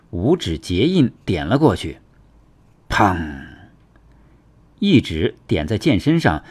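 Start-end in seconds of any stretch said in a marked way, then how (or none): 2.9-3.4 lower, ringing vocal "peng"; imitated impact boom. A narrator's reading. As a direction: voice one blow and let it ring.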